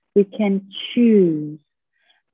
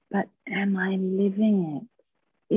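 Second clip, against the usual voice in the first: whispered question; 5 dB quieter than usual. Acted. Reflective question to audience.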